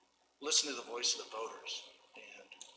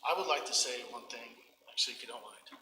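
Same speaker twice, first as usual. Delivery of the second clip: breathless from running; panting a little between words; out of breath. Real, not acted. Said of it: "I'm out of breath, I was running back from the bathroom".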